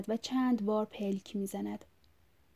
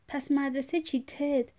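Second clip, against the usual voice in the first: angry grumble; 5 semitones higher, 3 dB louder than usual. Acted.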